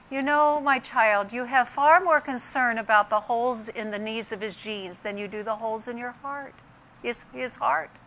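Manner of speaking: softly voiced, gentle correction; gentle divine reproof. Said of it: "the Holy Spirit gently has a way of speaking".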